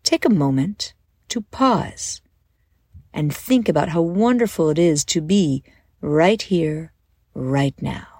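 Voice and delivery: calm, measured guided-visualization voice; unhurried guide easing them into a daydream; guided meditation. Acted. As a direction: lead listeners gently through breath and imagery, with pauses.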